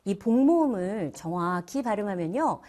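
usual speaking voice

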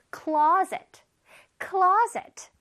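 "closet" pushed hard on CLO, then drawn in; stress on CLO. Shown as a demonstration. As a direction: push out the first syllable of "closet". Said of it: "밀었다가 안으로 들어온다고 생각해봐".

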